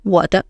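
我的 with 的 light and blended into 我; 我的 with no pause before 的; neutral tone 的. Shown as a demonstration. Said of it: "我的, no pause".

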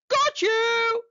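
snapped. Acted. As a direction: snap it as the shark grabs his prey. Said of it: "he snapped".

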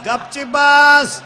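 slow, loud shouted order; roaring father. Retold or imitated. Father to his son, a slow loud bellow. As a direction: bellow it to shut him up. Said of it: "father shouts".

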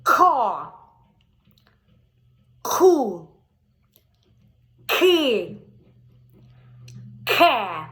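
loud, drawn-out Ко Ку Ки Ке; голосно по складах; loud syllable drill. Shown as a demonstration. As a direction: sound out each syllable for a child. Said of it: "дивимося".

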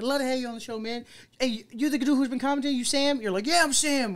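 high-pitched re-enacted banter; excited club chat. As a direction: act out an eager introduction in a club.

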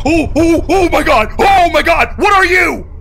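screaming in terror at a jump scare; panicked high shrieks; terrified screaming. Real, not acted. Jump scare in horror game.

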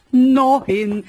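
"Neun" shouted out loud and high; excited shout. Real, not acted. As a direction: yell "Neun" in disbelief. Repeating the number. ("Neun" laut und begeistert gerufen)

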